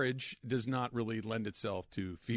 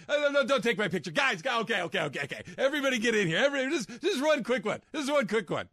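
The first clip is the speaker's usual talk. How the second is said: much higher, louder excited party woman; Candace impression; 10 semitones higher, 4 dB louder than usual. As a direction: gush like a woo girl at a party. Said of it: "That's my Candace".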